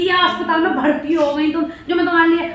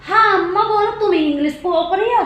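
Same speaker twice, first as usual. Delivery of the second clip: mock calling out; 5 semitones higher, 4 dB louder than usual. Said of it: "तो मैंने कहा".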